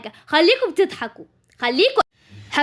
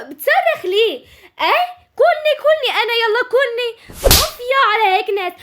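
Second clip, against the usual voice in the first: exasperated yelling; 6 semitones higher than usual. Acted. Sister yelling at brother.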